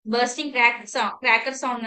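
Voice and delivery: slow, stretched description; teacher dwelling on an image slowly; slow, vivid. Shown as a demonstration. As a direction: draw out each word like a cracker going off. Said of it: "like a".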